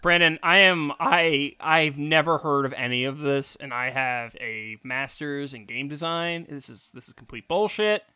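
mock outrage through clenched teeth; through gritted teeth. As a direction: grit your teeth and fake outrage. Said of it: "doing this through my teeth".

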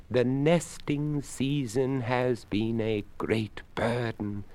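a courteous creaky skeleton, unhurried. Acted. Skeleton speaks.

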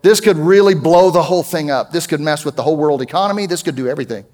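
mock panicked prayer. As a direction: play a worried believer spilling out fears to God. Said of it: "And you might wanna say".

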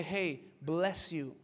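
very slow, drawn-out mock churchy bless you; mock pious greeting, lightly done. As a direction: play the overly Christian coworker, unhurried. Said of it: "you just sound so Christian".

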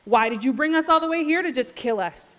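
mildly indignant mock griping; mad, salty. Israelites blaming Moses for bringing them here, mildly mad. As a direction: complain as if wronged, a touch heated. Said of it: "They're so mad".

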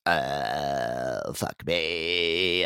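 a lightly voiced creaky moan; mock a woman with vocal fry in bed. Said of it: "that voice".

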